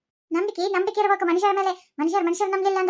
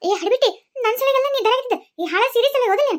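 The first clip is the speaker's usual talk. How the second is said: scolding mother-in-law; 4 semitones higher than usual. Acted.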